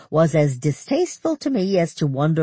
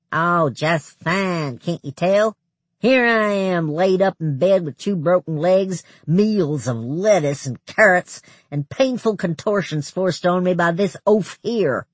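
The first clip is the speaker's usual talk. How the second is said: sarcastic complaining; 4 semitones higher, 3 dB louder than usual. Acted. Thurlow's bitter sarcastic complaint.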